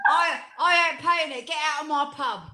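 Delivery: lightly put-on Essex accent; hint of an Essex landlord. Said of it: "that's how they talk down in Essex".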